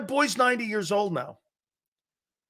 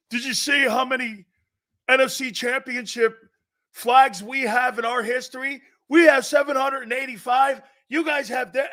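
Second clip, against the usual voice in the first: bragging Cowboy fan; 4 semitones higher than usual. Retold or imitated. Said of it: "It's called Cowboy fan".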